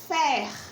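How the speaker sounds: FERMENTO split "fer", "men", "to", long pauses between; counting out syllables. Shown as a demonstration. Teacher counting with pupils, "fermento" in three separated syllables. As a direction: say "fermento" one isolated syllable at a time. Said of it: "Vamos contar comigo".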